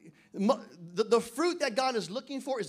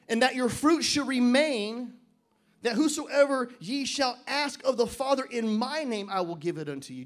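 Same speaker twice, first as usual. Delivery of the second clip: scripture reading. Acted. Pastor reading scripture aloud to church, slow and weighty. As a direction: lay each word down slowly.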